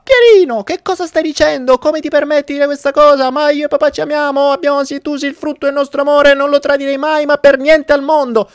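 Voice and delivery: high, loud indignant mother; shrill-free high mock outrage; outraged mother. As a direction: scold the child for daring to ask. Mother voiced in joke.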